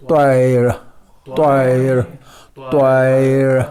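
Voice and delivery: طائر with a clear Arabic ط and a short, light ی; تلفظ: طائر; Arabic tair. Shown as a demonstration. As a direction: read طائر slowly the Arabic way, one beat on the ی. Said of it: "عربی میں اس کو طائر کہتے ہیں".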